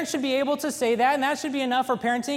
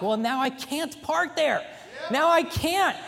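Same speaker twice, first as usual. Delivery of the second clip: mock stubborn; 4 semitones higher, slower than usual. Stubborn husband refusing the spot.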